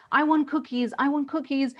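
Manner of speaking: put-on whining child. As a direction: beg like a two-year-old. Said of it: "they say".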